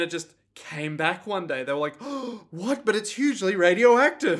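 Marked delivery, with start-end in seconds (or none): 2.0-4.4 raised, startled pitch, swelling louder; mock shock. People react to the monster coming back, mock shock. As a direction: play astonished disbelief.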